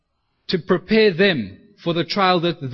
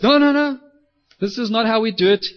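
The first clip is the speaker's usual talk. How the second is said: higher, louder, quick rebuke; corrective protest; 6 semitones higher, 5 dB louder than usual. Acted. Jesus stopping Peter after the sword attack, urgent correction. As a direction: cut in high and loud to stop him.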